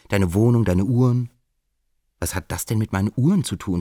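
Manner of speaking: put-on earnest lecture to an old friend, pitch climbing; impassioned plea. Golo hält Robert eine Standpauke. (Golo redet Robert eindringlich ins Gewissen, höher und lauter)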